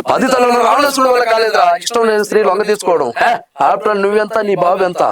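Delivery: measured, lightly acted hero scolding a rival; movie hero dialogue. Reciting a Palnadu Brahmanayudu dialogue for the interviewer, lightly acted hero voice. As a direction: deliver it like a film hero putting a man in his place. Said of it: "ఇంకో dialogue".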